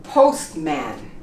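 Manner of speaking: postman said as "pos-man"; silent T. Shown as a demonstration. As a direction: drop the T inside postman. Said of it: "We don't pronounce the T".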